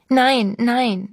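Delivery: half-hearted frightened outcry; cried out. A narrator's reading. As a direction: burst out in protest, understated. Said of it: "schrie Sabine auf".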